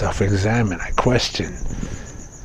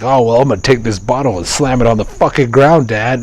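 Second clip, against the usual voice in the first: imitating angry toddler; 4 semitones higher, 7 dB louder than usual. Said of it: "I seen him do angry things".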